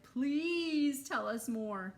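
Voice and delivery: loud, high, slow eager shout. Acted. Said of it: "Sally Ann shouted".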